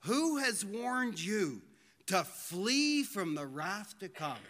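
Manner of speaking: slow, weighty quoted warning; slow, solemn rebuke of religious leaders; slow solemn question. Retold or imitated. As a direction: draw each word out gravely. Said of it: "he said to them".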